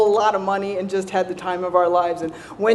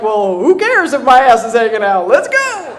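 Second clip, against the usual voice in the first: loud, reckless call; carefree shout; 4 dB louder than usual. Retold or imitated. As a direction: throw caution to the wind. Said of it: "I was like".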